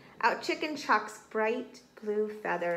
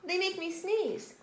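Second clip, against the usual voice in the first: high, broken up by achoos; whimpering high monkey with allergies; sneezy, tearful monkey; 9 semitones higher, 4 dB louder than usual. A narrator's reading. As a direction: struggle to talk through sneezes. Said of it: "sneezed the monkey as tears rolled down".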